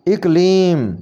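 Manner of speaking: इकलीम opening on 'ik'; correct pronunciation. Shown as a demonstration. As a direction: say इकलीम as 'ik-leem'. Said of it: "इसको सही करके पढ़ेंगे". (इकलीम को 'इ' से शुरू करें)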